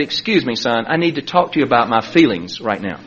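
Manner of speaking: low, soft, careful appeal; meek plea. Retold or imitated. Father asking his son to talk about feelings, meek plea. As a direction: imitate a gently confiding parent, hushed.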